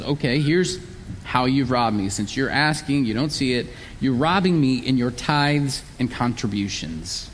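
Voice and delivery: patient explanation. Retold or imitated. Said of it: "patiently points out their blind spot".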